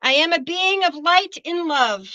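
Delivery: measured affirmation read for students to echo; affirmation for the class to repeat. Shown as a demonstration. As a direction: lead the class line by line. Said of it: "Everybody repeat after me".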